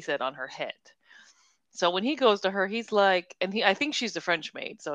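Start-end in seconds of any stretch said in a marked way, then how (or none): 0.2-0.7 whispered answer. Retold or imitated. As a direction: breathe the words like a secret. Retold answer about the maid.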